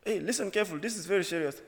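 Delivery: a hint of a stern coworker; her strict phone voice. Mimicking the coworker on the phone, lightly stern. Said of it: "She was speaking like that".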